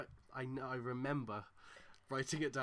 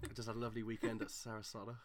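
posh traveller; 4 semitones lower, 4 dB quieter, faster than usual. Pretend. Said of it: "Oh, that sounds exotic".

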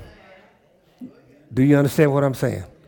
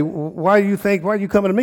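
higher, pointed questioning; challenging, acted; 6 semitones higher than usual. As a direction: model a challenge to someone approaching you. Models a challenge to congregants.

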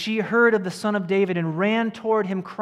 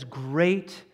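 Jesus speaking; 5 semitones lower, 5 dB quieter, much slower than usual. Retold or imitated. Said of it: "And he says".

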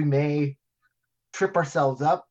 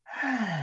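dramatic sigh; 4 semitones higher, 6 dB quieter than usual. Shown as a demonstration. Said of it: "both of us going".

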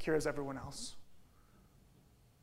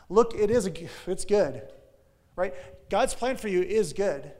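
louder, pleading spy voice; anxious spies; 4 semitones higher, 8 dB louder than usual. Retold or imitated. The ten spies explaining to Moses, loud and pleading. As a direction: voice the spies making excuses. Voicing fearful spies' excuses.

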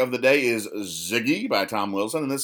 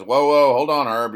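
urgent warning; 4 semitones higher, 8 dB louder than usual. Retold or imitated. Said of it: "and he says".

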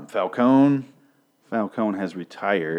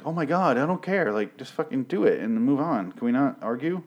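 exasperated; 5 semitones higher than usual. Retold or imitated. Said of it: "And it's like".

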